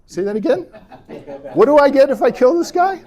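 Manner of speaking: high, loud laughing disbelief, greedy for the prize; eager laughing. Acted. David hears about the reward.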